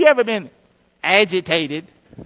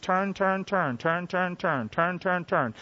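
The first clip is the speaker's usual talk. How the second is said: weary repetition; 3 semitones lower, 10 dB quieter, slower than usual. Acted. Preacher drones repetitive cycle.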